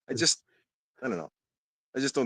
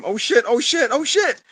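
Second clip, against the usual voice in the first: rising higher with each repeat, louder; excited yelling; 12 semitones higher, 5 dB louder than usual. Retold or imitated. Fan reenacts reacting to a great catch, building excited yell. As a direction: climb in pitch every time, building excitement.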